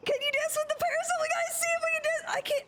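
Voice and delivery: high and fast, giddy; excited rush. Real, not acted. Streamer to her in-game team, excited and fast. Excited about parasol dance.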